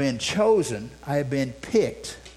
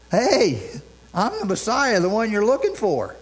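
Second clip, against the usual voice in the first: proud shout; 6 semitones higher than usual. Pretend. Jesus proclaiming himself.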